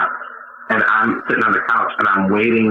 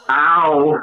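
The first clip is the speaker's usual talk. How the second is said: higher, drawn-out pretend groan; mock ow; 5 semitones higher than usual. Comic showing what he says after farting, mock ow. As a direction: let out a put-on ow. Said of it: "sometimes I'll go".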